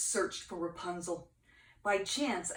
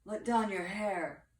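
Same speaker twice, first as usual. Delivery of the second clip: prince calling out. Acted. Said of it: "the prince called out".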